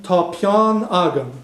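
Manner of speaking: slow, careful Irish "tá peann agam"; teacher modelling Irish; Irish phrase demo. Shown as a demonstration. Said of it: "the first two example sentences here".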